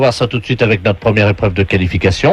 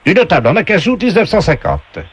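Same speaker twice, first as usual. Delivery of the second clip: game show voice; 6 semitones higher than usual. Acted. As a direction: announce it like a TV game voice. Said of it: "on vous passe tout de suite la voix du jeu".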